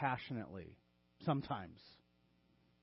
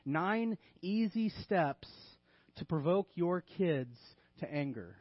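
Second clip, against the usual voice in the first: deadpan sarcastic headline; tongue-in-cheek. Pretend. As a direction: announce it like a self-help programme, sarcastically. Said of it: "in a tongue-in-cheek manner".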